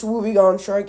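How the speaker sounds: woobegone with a hard g and open vowel, WOO-bee-GON; own pronunciation. Shown as a demonstration. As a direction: say woobegone as "wooby-gone". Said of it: "but it's woobegone shark".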